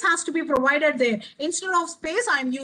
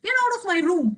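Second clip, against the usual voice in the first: higher, sharper exclamation; a teacher's acted scream, not full volume; exclamatory tone; 4 semitones higher, faster than usual. Shown as a demonstration. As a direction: fling it out as a demand. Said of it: "If I, I find an exclamation there".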